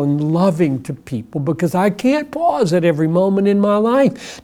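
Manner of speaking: lightly voiced earnest prayer, close to his own voice; imitating a morning prayer. Believer asks the Lord for guidance before the day, mild sincere prayer. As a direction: address the Lord as if praying right now. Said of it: "You say".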